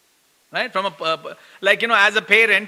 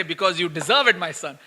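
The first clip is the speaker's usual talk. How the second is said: Gopinath's verdict; 4 semitones lower than usual. Pretend. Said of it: "Gopinath to come and say".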